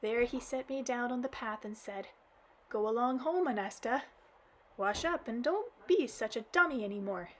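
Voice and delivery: acted child crying to granddad; blubbering girl. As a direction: blurt it out blubbering. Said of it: "all the while laminating".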